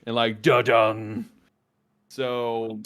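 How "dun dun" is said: Law and Order sting. Retold or imitated. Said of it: "playing Law and Order in the background".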